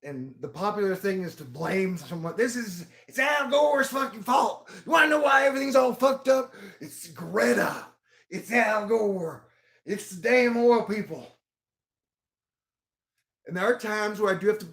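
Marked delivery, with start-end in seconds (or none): 2.4-11.4 mock angry blamer; mock blamer rant. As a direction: ham up the blame-someone crowd, shouting names. Mocking people who blame others.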